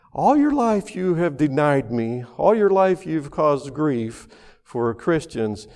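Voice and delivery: voice of God. Retold or imitated. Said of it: "he heard God's voice that said this".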